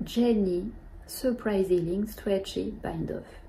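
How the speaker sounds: English knitting term read slowly with a French accent. Real, not acted. French knitter naming the English bind-off, French accent. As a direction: spell out the English name carefully, French accent. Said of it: "Vous voyez mon accent".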